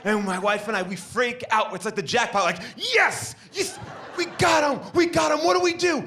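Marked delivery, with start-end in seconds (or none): 2.8-6.0 high-pitched shouted glee; excited squeal. Acted. Husband celebrates catching the dog owner, squealing. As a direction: squeal it like you hit the jackpot. Couple freaking out at the jackpot.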